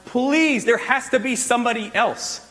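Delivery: high, pleading plea; begging. Retold or imitated. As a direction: beg to be let off the hook. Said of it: "he begs God".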